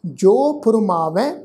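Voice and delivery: ਫੁਰਮਾਵੈ with a nasalized final ਵੈ; nasal tone. Shown as a demonstration. Teacher demonstrates nasal ending of ਫੁਰਮਾਵੈ. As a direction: end ਫੁਰਮਾਵੈ through the nose, slowly. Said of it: "ਨਾਸਕੀ tone ਚ ਪਾਠ ਉਚਾਰਨ ਕਰਾਂਗੇ".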